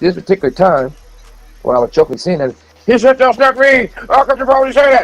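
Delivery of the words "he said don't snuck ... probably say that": over-excited, very high blurt. Retell how a man reacted when you were joking with him, imitating someone overly excited. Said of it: "He got so excited like he was about to die".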